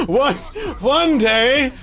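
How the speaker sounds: hopeful mock longing; high wistful one day. Shown as a demonstration. Repeated wistfully.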